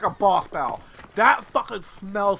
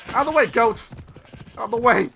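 louder, threatening call; yelling at goats; 4 semitones higher, 4 dB louder than usual. Real, not acted. Player yells at goats while riding. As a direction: chase the goats off.

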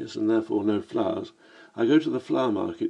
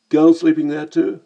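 cheeky Cockney "Blimey, mate"; brash London Cockney greeting; Cockney accent; 6 semitones higher, 9 dB louder than usual. Acted. The speaker remarking on the narrator's accent, in Cockney. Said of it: "a Cockney in Venice".

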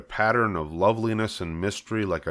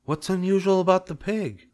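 higher, incredulous wife voice; bewildered wife; 11 semitones higher than usual. Acted. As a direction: demand what he means. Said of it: "asked Missus Zuckerman".

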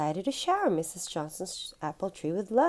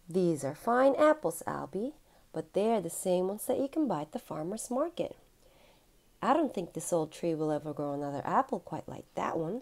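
sighing. Acted. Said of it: "she sighed".

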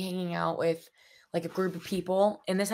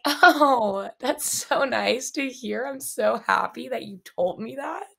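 sarcastic reply; 5 semitones higher, slower than usual. Retold or imitated. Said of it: "And I'm like".

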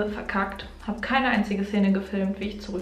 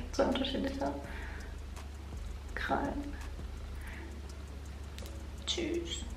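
soft playful voice; 3 semitones higher, 15 dB quieter than usual. Acted. Playful quiet high sign-off.

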